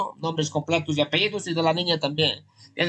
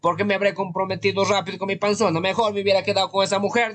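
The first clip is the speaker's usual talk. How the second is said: mock regretful husband; 2 semitones higher than usual.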